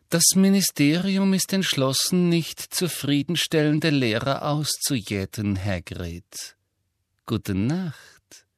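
softly menacing schoolmistress; sweetly threatening, high then hushed; soft Umbridge. Acted. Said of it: "sagte Umbridge sanft".

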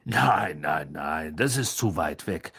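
low, amused dismissal; smiling reassurance. A narrator's reading. Mr Weasley reassures Harry about the walk, low and smiling. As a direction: wave the idea away with a smile, pitched low. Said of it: "sagte Mister Weasley lächelnd".

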